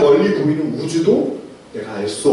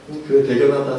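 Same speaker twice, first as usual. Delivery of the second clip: soft praise; 4 semitones lower than usual. Retold or imitated. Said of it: "쓰담쓰담 해주시겠죠".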